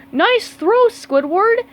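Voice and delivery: high, loud cheer. Acted. Teammates cheering Squidward's kelp log toss, high and loud. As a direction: cheer your teammate's throw. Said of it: "his teammates cheered".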